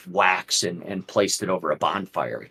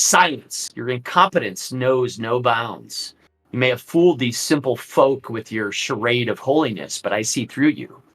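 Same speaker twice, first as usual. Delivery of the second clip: commanding Strahd. Acted. Strahd berates the abbot.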